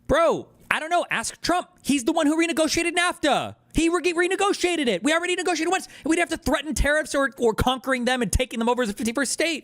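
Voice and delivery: exasperated, arguing back hard; heated rant. Real, not acted. Heated interruption of Trump official.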